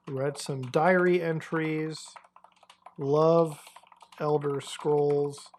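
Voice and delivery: very slow, with long gaps between words; slow dictating. Real, not acted. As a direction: compose a message aloud as you type. Composing a typed message aloud.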